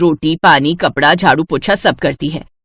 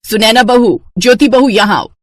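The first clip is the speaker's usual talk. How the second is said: calling out; 5 semitones higher, 4 dB louder than usual. Acted. Mother-in-law calls daughters-in-law.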